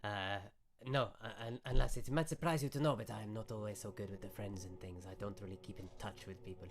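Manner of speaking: lightly voiced wizard owning up; unsociable wizard. Game master voices the wizard.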